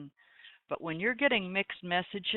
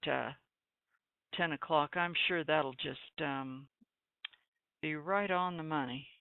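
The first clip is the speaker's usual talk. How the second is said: sarcastic; 2 semitones lower than usual. Real, not acted. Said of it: "was that a little sarcastic?".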